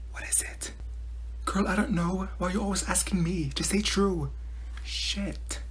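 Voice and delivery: hushed, secretive classroom whisper; whispered conferring. Acted. Student asked by teacher, urgently whispering with a classmate. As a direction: whisper so the teacher won't hear.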